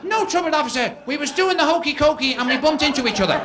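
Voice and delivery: a bloodied guest fibbing to the police; innocent brawler. Acted. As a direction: play it butter-wouldn't-melt.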